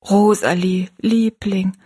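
tender, drawn-out address; consoling. A narrator's reading. Mother tries to comfort her crying daughter, consoling. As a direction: soothe an upset child by name. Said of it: "sie zu trösten".

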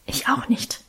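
breathless, toneless whisper. Acted. Girl whispering back to her brother at night, in a hushed whisper. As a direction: hush it so no one wakes. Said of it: "wisperte ich".

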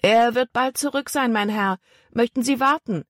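put-on boy stalling the tall man at the railing; polite boy, steady. A narrator's reading. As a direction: answer the stranger politely. Voiced boy.

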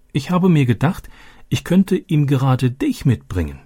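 father joking with his curious daughter; roguish wink. Acted. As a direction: tease her with a twinkle. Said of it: "mit schelmischem Zwinkern".

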